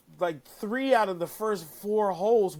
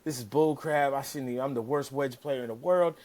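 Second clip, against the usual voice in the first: mock whining; 3 semitones lower than usual. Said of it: "he's now bitching and complaining".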